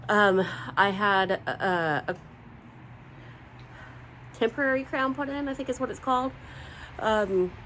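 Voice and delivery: talking with one side numb; numb mouth. Real, not acted. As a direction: speak as if half the mouth won't move. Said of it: "I may look like I'm talking a little funny 'cause this side won't move".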